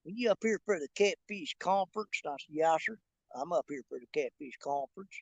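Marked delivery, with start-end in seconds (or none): 0.1-2.2 soft imitated country hick accent; put-on country hick talk. Man in elevator asks a stranger, put-on country hick accent. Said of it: "started talking like that right there". 2.6-5.1 put-on low, soft country hick accent; reply as a put-on country hick, pitched down; put-on country hick talk. Answering a stranger in the elevator, low put-on country hick accent. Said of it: "started talking like that right there".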